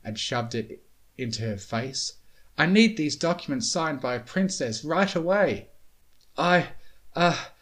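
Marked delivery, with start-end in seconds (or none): 2.6-5.7 urgent. A narrator's reading. Starlight urgently demanding signature. 6.4-7.5 huffing, winded high voice; out of breath. A narrator's reading. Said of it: "Spike huffed out of his breath".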